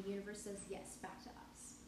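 lightly done bad French accent; trashy French accent. Podcaster slips into a trashy French accent. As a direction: put on a cheesy French accent. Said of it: "really trashy French accent".

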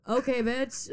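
high, loud sassy retort; sassy okay bitch. Retold or imitated. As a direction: hit it high and cheeky. Her reaction to host.

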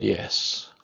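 a soft, breathless whisper; whispered assent; whispered yes. Retold or imitated. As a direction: barely voice the word. Dying man's soft answer.

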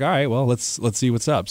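ready for a challenge; upbeat self-quote. Retold or imitated. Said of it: "I was like".

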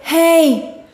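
lightly mimicked voices from a TikTok; TikTok girl. Describing a clairaudience TikTok to a friend, playful mimicry. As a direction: random voices popping in, half laughing. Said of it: "it's like".

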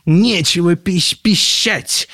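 high, loud stuttered protest; flustered, indignant outburst; stammering. A narrator's reading. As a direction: snap it out, tripping on the word. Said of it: "заикнулся Людвиг четырнадцатый".

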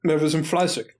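eating pizza while talking; chewing while talking. Real, not acted. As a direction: talk through a mouthful of pizza. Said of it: "Und ich esse grad Pizza".

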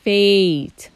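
"fate" with a long ay sound; long a demo. Shown as a demonstration. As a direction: stretch "fate" into fay-t. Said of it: "When you put E in the end".

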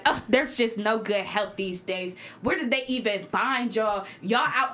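slow, disdainful lady voice; snooty customer imitation. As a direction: drag it out with contempt. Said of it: "this lady really was like".

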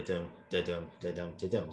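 da-dum da-dum chanted in a strict even beat, weak then strong; robotic iambic beat. Shown as a demonstration. Host mocking rigid verse-speaking, even da-dum beat. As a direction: tap out the iambic pulse like a metronome. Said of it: "I thought you'd sound a bit like a robot".

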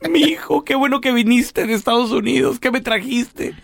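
high, mock-tearful old mother; lightly voiced tearful mom; crying mother. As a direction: play the weeping mother, hammed-up. Mother voice in comic skit.

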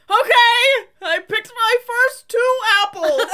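put-on high childish voice, lightly done, giggling; a hint of a little girl's voice; childlike voice. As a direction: mimic a grown woman sounding like a child. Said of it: "she sounded like a child".

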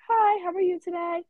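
high, cheery cashier greeting; customer-service greeting. Retold or imitated. Greeting customers in the retold scene.

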